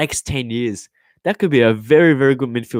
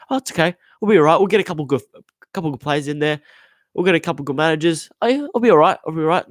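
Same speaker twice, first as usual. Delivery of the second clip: mocking complacent club; 5 semitones higher, faster than usual. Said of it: "had the mentality of like".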